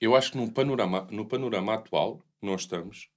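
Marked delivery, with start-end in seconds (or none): 1.1-3.1 burp breaking the words; slow, quiet words around a burp; talking while burping. Real, not acted. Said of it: "perdão a todos os presentes".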